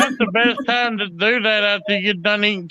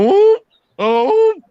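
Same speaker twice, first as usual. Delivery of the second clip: mock alarm whoop; 11 semitones higher, 4 dB louder, slower than usual. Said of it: "go out there and go".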